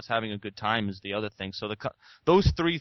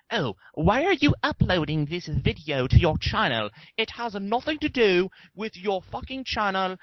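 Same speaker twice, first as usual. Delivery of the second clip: put-on sneering British accent, pitched higher; higher, hammed-up British accent; mock British accent; 7 semitones higher than usual. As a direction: mimic a snooty British commenter. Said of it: "not necessarily in the British accent".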